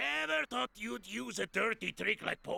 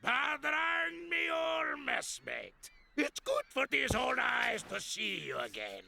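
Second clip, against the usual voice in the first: put-on gruff old fisherman. Pirate captain greeting old mate.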